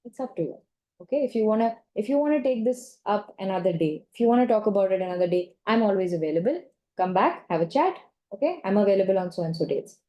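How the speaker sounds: sincere, supportive. Shown as a demonstration. Counsellor demoing a warm, sincere tone to a client. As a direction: offer it kindly, leave the door open. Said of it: "That's very different".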